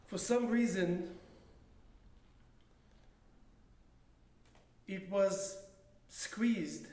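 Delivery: slow, measured poem recital with long pauses; poetry reading. Acted. Poet reads own handwritten poem to an audience, measured recital. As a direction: recite deliberately, letting each phrase hang before the next.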